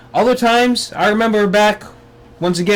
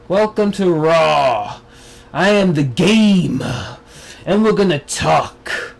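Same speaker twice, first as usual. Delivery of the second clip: mock Triple H; slower than usual. Imitating Triple H promo.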